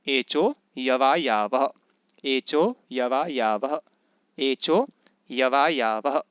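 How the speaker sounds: slow, even recitation of एचो यवा यावह, long vowels held; repeated sutra drill. Shown as a demonstration. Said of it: "पांच बार इसको बोलिए". (सूत्र का धीमा, दोहराता पाठ)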